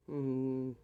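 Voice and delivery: usual speaking voice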